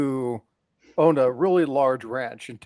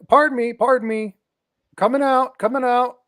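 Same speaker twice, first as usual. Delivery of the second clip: put-on polite old rancher; 10 semitones higher, 5 dB louder than usual. Rancher approaching swimmer.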